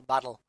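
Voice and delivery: "battle" with a clear, crisp L; "battle", L sound stressed; battle said with a hard L. Shown as a demonstration. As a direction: land the L in "battle" cleanly. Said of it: "It's just the L".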